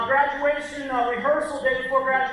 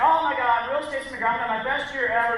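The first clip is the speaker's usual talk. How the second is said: mildly gushing, pitch lifted slightly at first; glowing; 2 semitones higher than usual. Retold or imitated. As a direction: lightly imitate someone glowing about their great year. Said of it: "You know, she's all glowing".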